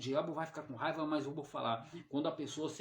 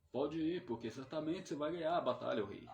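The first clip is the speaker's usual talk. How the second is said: mocking. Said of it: "falou com jeito de deboche".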